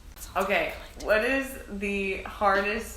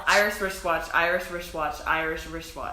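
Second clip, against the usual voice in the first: tongue twister; 3 semitones lower than usual. Shown as a demonstration. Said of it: "Say this three times".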